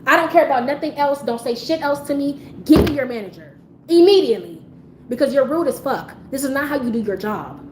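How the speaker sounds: firm, emphatic retold demand; snapping. Angry customer demanding the worker's manager, snapping. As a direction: demand it hard, punching the key words. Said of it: "after I snapped at her".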